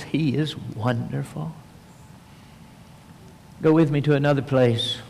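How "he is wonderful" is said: soft and slow, barely above a breath; hushed awe. Acted. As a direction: speak it softly in awe. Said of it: "all they could think of was".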